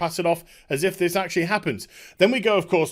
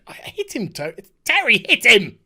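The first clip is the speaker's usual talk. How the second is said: rising to a louder shout on the last words; exasperated shout; 3 semitones higher, 4 dB louder than usual. Real, not acted. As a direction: yell at him to fight back. Urging Terry to hit back.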